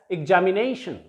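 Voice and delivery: examination with NA lifted and lengthened; examination, stressed on its second-last syllable; stress on penultimate syllable. Shown as a demonstration. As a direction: lean on the NA in examination. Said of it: "थोड़ा सा ऊंचा उठाकर बोलेंगे".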